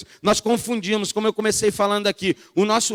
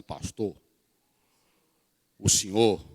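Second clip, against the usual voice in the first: imitating the missionary; 10 semitones lower, slower than usual. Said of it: "Vocês conhecem a voz dela?".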